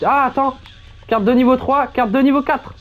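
high voice-changer squeak. Real, not acted. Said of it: "c'est normal que t'aies la voix aussi aiguë".

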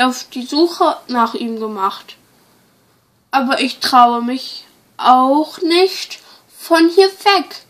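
a lightly voiced worried shepherdess; disguised voice. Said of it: "meine Stimme zu verstellen".

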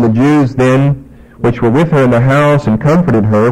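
low, measured Bible reading; scripture reading. Acted. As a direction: read the verses out steadily to the congregation. Reads scripture aloud.

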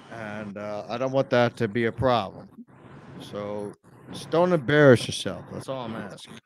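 low, sincere plea to a friend; earnest appeal. Real, not acted. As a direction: drop the voice low and ask sincerely.

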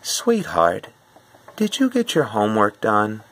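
gentle, sweet reminder from a mom; asking a child sweetly about homework; nice mom voice. Retold or imitated. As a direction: ask sweetly like a kind mother. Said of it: "she might say something such as".

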